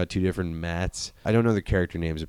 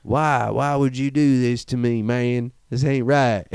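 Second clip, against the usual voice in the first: pleading; 3 semitones higher than usual. Retold or imitated. Dying man pleading.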